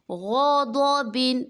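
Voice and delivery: غضبن slow with full heavy غ and ض; heavy letters. Shown as a demonstration. Teacher reciting غضبن slowly to show heavy letters. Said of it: "غین پر ہے، ضاد بھی پر ہے".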